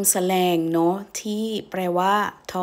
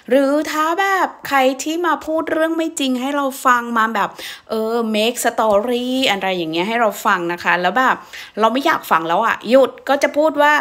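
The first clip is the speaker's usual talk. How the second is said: annoyed setup; 4 semitones higher, 4 dB louder than usual. Acted. Acting annoyed at liar.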